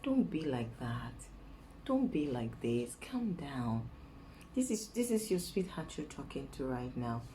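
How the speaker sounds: lightly acted low sweet talk; coaxing. Woman showing how she calms her angry lion, coaxing. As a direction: gently pretend to placate a partner. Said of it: "You see how I go?".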